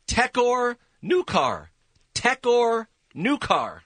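slow, spaced-out reversed words; slow backwards speech. Shown as a demonstration. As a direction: drag the backwards title out slowly. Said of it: "I love this one backwards".

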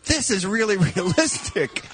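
amused imitation of an amazed spectator; impressed show spectator. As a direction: play a thrilled audience member, laughing through it. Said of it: "the guy watching the show saying".

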